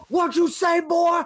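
high menacing mock growl; imitating Steiner. Fan retelling Steiner confronting him, mock threat. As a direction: throw the challenge like an angry wrestler. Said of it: "Scott Steiner turns to me and go".

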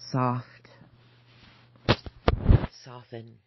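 whispered mantra. Acted. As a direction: murmur a soothing mantra to yourself. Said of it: "I'm whispering to myself".

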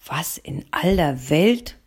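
slow, puzzled wonder; surprised. Acted. Woman wonders at the boys before her shop, slow and puzzled. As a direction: ask yourself in disbelief, slowly. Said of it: "fragte ich mich".

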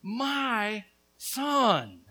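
preacher voicing the Father's claim; fatherly declaration. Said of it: "the Father sees you and declares".

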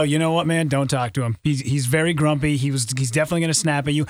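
tag. Retold or imitated. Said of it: "people just go".

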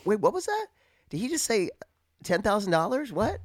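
high, puzzled double-take; imitating a caller who missed the number; mock confused. Listener mocks a confused mark, high and baffled. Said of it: "To make you go".

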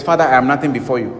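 quick, mildly mocking humble prayer; mock a grovelling prayer, lightly. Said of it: "Jesus is standing before his father and says".

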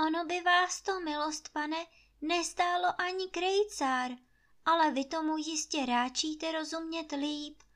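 sweet servant. Acted. Maid sweetly threatens leaving.

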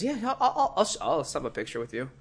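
laughing, tumbling yes; laughing agreement. Retold or imitated. Player agrees to the photo, laughing.

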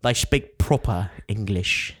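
slow, put-on Cockney accent, lightly done; mock Cockney accent. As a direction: poke fun at the Brits in a Cockney accent. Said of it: "as you said, in a Cockney accent".

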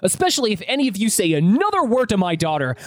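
heated, indignant pitch jumps; acted angry father confronting parents; pissed-off dad. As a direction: tell off the bullies in protection mode. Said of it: "I'm pissed and even more upset".

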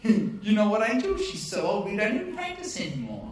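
amused, incredulous objection; protesting Zacharias. Acted. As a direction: play Zacharias arguing back at the angel. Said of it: "And Zacharias says".

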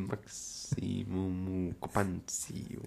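slow drawn-out repeat through laughter; laughing repeat. Pretend. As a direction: savour the silly name while laughing. Repeating joke name, laughing. (lachend langsam wiederholt)

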